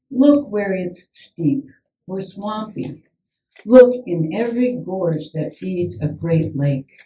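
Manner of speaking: measured poem reading with long pauses between images; poetry reading. Acted. Poet reading her Ballinskelligs poem to the audience, measured. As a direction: let each image land, unhurried.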